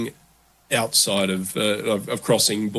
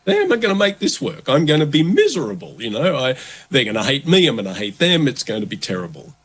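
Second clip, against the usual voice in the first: panicky worrier; 4 semitones higher, faster than usual. Retold or imitated. Someone facing an opposite culture, mock-panicking aloud. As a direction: voice shooting up high in mock panic. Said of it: "panicking and going".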